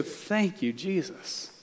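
hushed, softly spoken thanks; quiet, humble word of thanks to God; grateful prayer. Acted. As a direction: let the thanks drop almost to a murmur. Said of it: "we should just go".

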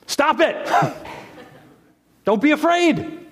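playful falsetto scolding with a laugh; laughing high-pitched mock rebuke. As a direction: tease them like a fussy parent. Preacher mock-scolds the fearful.

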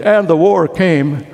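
a touch of triumph, proud and ringing; triumphant. Shown as a demonstration. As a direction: say it like a victory. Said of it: "he might have said it triumphantly".

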